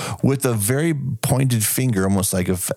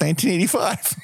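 deadpan obvious answer; 9 semitones higher, faster than usual. Retold or imitated. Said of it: "I'm like".

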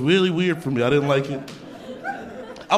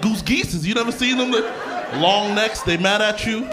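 insistent explaining; 6 semitones higher than usual. Retold or imitated. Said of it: "I was like".

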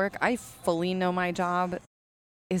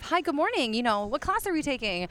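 higher-pitched chirpy hello; friendly teacher's greeting; 6 semitones higher than usual. Retold or imitated. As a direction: greet a parent checking in a child. Normal greeting to a parent, voiced.

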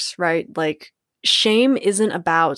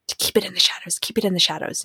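kinky shame voice; 3 dB quieter, much faster than usual. Retold or imitated. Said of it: "that shame voice ... becomes a bit kinky".

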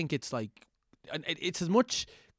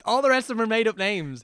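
conspiratorial whisper; 8 semitones higher, 5 dB louder than usual. Acted. Teasing aside about fake names.

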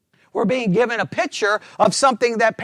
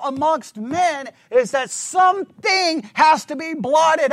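slow, higher, driving sermon climax; fervent preaching; 6 semitones higher, 3 dB louder, slower than usual. Acted. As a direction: preach it slowly to the rafters. Preaching at full force.

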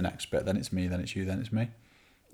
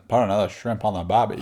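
loud, badly faked Australian accent; attempted Australian accent; 6 dB louder than usual. Daring co-host to do it, loud mock Australian accent. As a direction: have a clumsy go at Australian, pushed loud. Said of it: "You do the put another".

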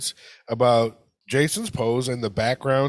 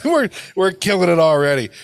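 usual speaking voice

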